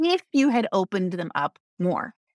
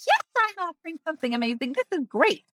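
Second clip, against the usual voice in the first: high, fast, proud business owner; mock proud owner; 9 semitones higher, faster than usual. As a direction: play the smug owner, quick and high. Owners answer, voiced higher.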